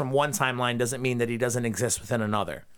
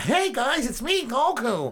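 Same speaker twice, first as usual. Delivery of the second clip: lower gruff Goku; 11 semitones higher, slower than usual. Retold or imitated. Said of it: "kind of in a lower register than that".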